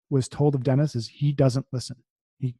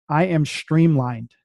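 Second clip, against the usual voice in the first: each word of "I am streamlined" laid down slowly and firmly; slow affirmation; slower than usual. Shown as a demonstration. Telling listeners how she now says her affirmations, slow and firm. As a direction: say it like you mean it, one word at a time. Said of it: "So you can hear how I'm saying 'em".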